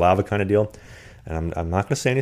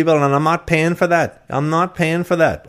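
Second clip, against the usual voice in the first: high-pitched mock Irish roommate; Irish accent; 9 semitones higher, 4 dB louder, slower than usual. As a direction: imitate an indignant Irish roommate, high and drawn out. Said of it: "work on your Irish accent".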